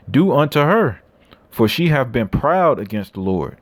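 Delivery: scripture reading. Acted. Reads scripture aloud.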